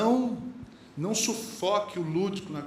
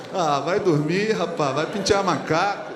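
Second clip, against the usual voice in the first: mock brush-off; 2 semitones lower, 8 dB louder than usual. Mock brush-off of annoying question.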